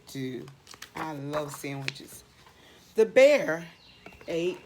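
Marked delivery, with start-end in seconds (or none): 3.0-4.6 loud, punchy reveal; spring the surprise on the listeners; dramatic reveal. Acted. Reading aloud, springing the bear surprise.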